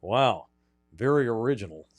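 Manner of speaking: deadpan sarcasm, unimpressed; condescending. Retold or imitated. Host imitating Verstappen mocking the team name, condescending. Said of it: "Real condescending".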